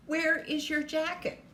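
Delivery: acted parent wanting an answer; demanding parent. Parent questions child in story.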